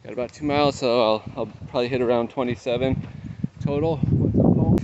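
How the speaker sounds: talking mid-run, out of breath; breathless runner on the move; while running. Real, not acted. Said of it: "I'm at just under twenty-five miles".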